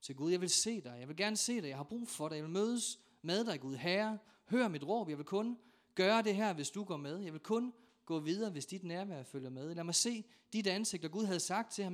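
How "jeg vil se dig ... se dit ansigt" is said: raised, pleading call to God; insistent preacher's re-enactment of a plea; crying out to God. Retold or imitated. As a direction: act out an urgent cry in prayer. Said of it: "så havde han råbt".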